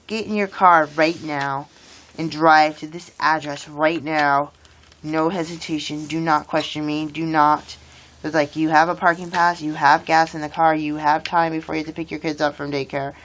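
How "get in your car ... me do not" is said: slow, lightly voiced commanding divine voice; a hint of God giving firm, unhurried orders. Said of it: "the voice of God saying".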